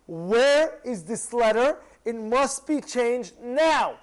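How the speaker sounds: slow, emphatic order, word by word; insistent demand. Retold or imitated. Nebuchadnezzar ordering the letter changed, insistent. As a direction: demand it with weighty, drawn-out words.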